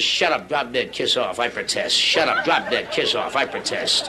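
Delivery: low, slow doll voice; a low-voiced talking doll reciting its lines; beatnik doll voice. Beatnik doll talking when its string is pulled, low and slow. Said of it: "it says".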